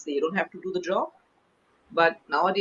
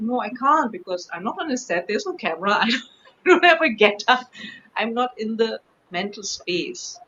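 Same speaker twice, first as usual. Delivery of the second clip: mock protest, pitched higher; retold protest; 4 semitones higher, 6 dB louder than usual. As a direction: reel off excuses in an animated retelling. Retells refusing a request to perform.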